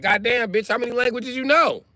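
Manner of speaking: very high-pitched incredulous question; mock amazement. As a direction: squeal it in exaggerated disbelief. Acting out an amazed listener.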